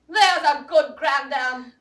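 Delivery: slow, tearful mock-coaxing; tearful taunt. Mother taunting the grandmother, slow and tearful. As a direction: coax her like a child through tears. Constance taunts Elinor, near tears.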